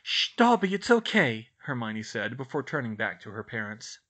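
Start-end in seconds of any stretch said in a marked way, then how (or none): 0.0-1.5 hushing reassurance. A narrator's reading. Girl hushes sobbing elf.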